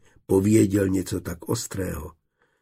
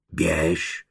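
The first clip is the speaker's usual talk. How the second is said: good-natured; 4 semitones lower than usual. Acted. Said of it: "postrčil ho dobromyslně".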